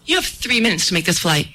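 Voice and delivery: unruffled, brisk gate agent; quick, matter-of-fact calm, lightly acted; cool as a cucumber. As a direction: play the agent totally unfazed. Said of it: "She was cool as a cucumber".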